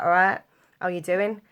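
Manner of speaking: put-on Northern English greeting; Northern English accent. Kid pretending on holiday to be from the North, Northern English accent. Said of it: "I would pretend to be Northern".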